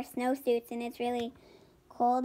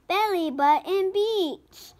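grand announcement; 5 semitones higher, slower than usual. A narrator's reading. Announcing the beach name.

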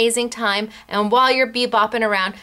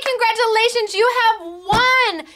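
slow excited proclamation; 9 semitones higher than usual. Real, not acted. Announcing giveaway winners.

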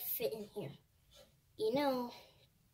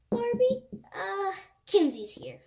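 calling out; 8 semitones higher, 6 dB louder than usual. Acted. Doll calls out alarm.

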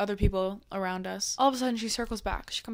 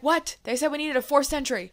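higher, louder baffled what; surprised firemen; 6 semitones higher, 5 dB louder than usual. Retold or imitated. Firemen baffled at the doorway call, higher and louder. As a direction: play the confused fireman. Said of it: "And they're like".

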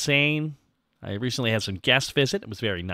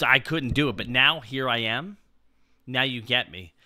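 ordinary talk

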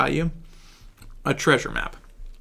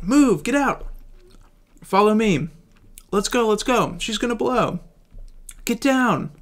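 panicked shouting; 8 semitones higher than usual. Acted. Rushing friends out of the ship before it explodes, shouting. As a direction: hurry everyone out before it blows.

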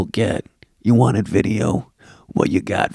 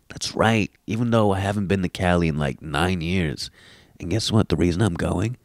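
ordinary delivery

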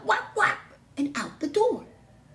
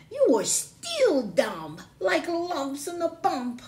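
slow taunt; 6 semitones higher, 4 dB louder, slower than usual. Acted. Megan scolds penned pigs.

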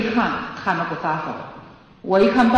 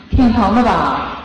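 slow mock concern; 6 dB louder, much slower than usual. Shown as a demonstration. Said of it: "你说".

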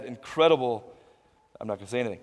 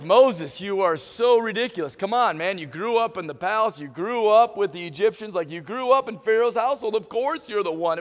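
mock exasperation; 3 semitones higher than usual. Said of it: "all of us are like".

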